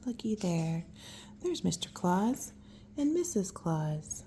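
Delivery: slow unvoiced whisper. Real, not acted. Parent whispering names of the pictures. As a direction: hush it slowly.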